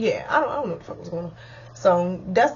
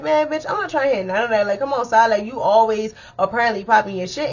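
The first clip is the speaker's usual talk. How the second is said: retold clapback; 2 semitones higher, 3 dB louder than usual. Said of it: "So I'm like".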